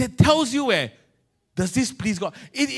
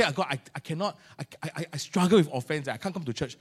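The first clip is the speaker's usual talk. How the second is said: whiny excuse; 6 dB quieter than usual. Retold or imitated. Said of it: "You say".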